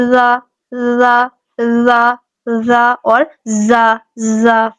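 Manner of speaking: زا said soft, not buzzed; soft dhal. Shown as a demonstration. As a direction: release زا gently. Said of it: "زال کو ہم نرمی سے ادا کریں گے".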